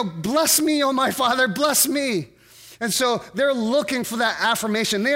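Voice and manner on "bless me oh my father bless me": pleading cry, pitched higher; a mild, pitched-up imitated plea. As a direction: beg like someone starved of a father's word. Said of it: "crying out from the depths of their being".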